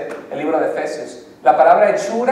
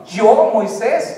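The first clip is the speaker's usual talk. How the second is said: drawn out, a touch higher; slow self-pointing; 4 semitones higher, 4 dB louder, much slower than usual. Acted. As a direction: linger on each word, humbly. Moses stressing himself, slowly.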